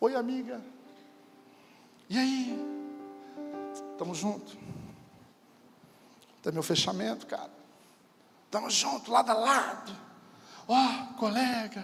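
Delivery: honeyed, sweet, friendly, tempting voice. Showing how Satan will present himself to you: sweet voice of Satan. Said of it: "Voz doce".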